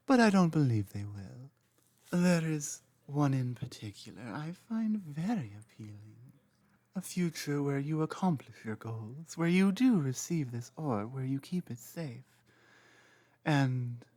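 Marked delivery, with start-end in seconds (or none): 2.1-14.0 softer and hushed, tender hint of longing; soft intimate confession. Dragon confessing hopes for a shared future to the trainee, softly intimate.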